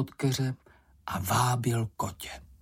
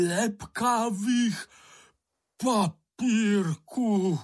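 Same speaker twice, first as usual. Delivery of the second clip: much higher, very slow, near-crying echo; aghast repetition; 9 semitones higher, much slower than usual. Acted. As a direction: repeat it in horror, the words dragged out. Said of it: "opakoval Bambul a zbledl". (zděšeně, velmi pomalu, skoro se slzami)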